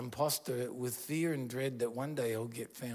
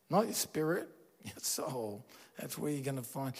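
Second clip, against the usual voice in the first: ordinary talk, nothing marked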